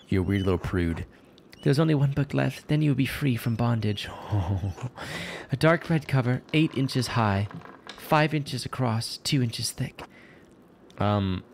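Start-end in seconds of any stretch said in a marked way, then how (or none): 1.6-10.0 lightly voiced formal religious sister; measured, lightly acted instructions; a hint of a precise nun; instructing nun.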